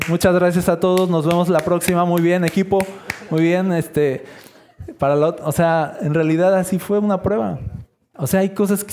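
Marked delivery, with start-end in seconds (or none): 0.1-3.7 higher and louder, upbeat team thanks; cheery thanks. Pretend. Angels thanking their storm crew, hammed-up cheery wrap-up. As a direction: cheer the crew like a stage manager.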